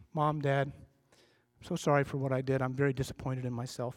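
low, subdued apology to parents; lightly voiced kid owning up, head down; contrite kid. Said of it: "the kid comes to his parents and he or she says this".

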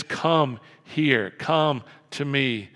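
slow, measured invitation; Jesus inviting. Retold or imitated. Jesus inviting the blind man, slow calm welcome. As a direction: draw it out, unhurried and welcoming. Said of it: "And Jesus says".

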